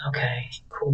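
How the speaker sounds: whispering "cool beans" under breath; whispered cool beans. Retold or imitated. Vlogger whispering "cool beans" to herself.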